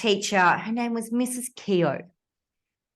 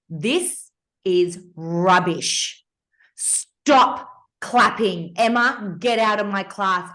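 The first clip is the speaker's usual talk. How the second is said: slow, louder, cold imitation of a teacher; harsh teacher; 4 dB louder, much slower than usual. Teacher tearing up a pupil's essay, slow and louder. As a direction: spit each word out slowly, scorning. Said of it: "she goes".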